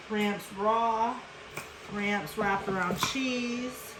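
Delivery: ordinary delivery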